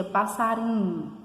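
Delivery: "passarinho" with the "ri" stretched out; lightly called "passariiinho"; stressed syllable demo. Shown as a demonstration. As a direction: hold and lift the "ri" in "passarinho". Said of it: "dá pra ver que é o ri".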